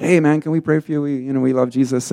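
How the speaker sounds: lightly acted eager youngsters; eager youths. Youths run up to offer a man prayer, eager.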